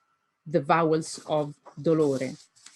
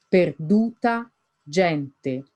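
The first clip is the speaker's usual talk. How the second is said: "Perduta" stressed on "du", "gente" on "gen"; stressed syllables; 2 semitones lower, slower than usual. Shown as a demonstration. Teacher marking stresses for students, leaned on. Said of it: "Now look at the stressed syllables".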